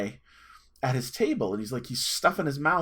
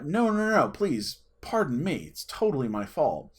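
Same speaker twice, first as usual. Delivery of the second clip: sarcastic, sassy; 2 semitones higher than usual. Retold or imitated. Sassy kid baiting a polite stranger, playfully sarcastic. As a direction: overdo the courtesy, lightly sassy. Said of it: "I'm also a sarcastic, sassy pants".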